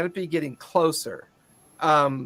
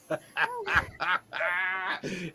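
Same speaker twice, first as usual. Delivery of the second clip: drawn-out acted laughing fit; character's laughter; 6 dB quieter than usual. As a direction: laugh it out as the gleeful creature. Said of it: "he just starts laughing".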